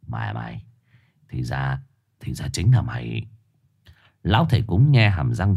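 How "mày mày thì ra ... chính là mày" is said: low, soft, menacing growl. Acted. Dog-spirit growls at the shaman, low and menacing. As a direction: snarl it through bared teeth. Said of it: "nhe răng gầm gừ".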